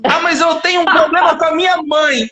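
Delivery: hammed-up complainer; mock complaining customer. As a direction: parody a customer's protest.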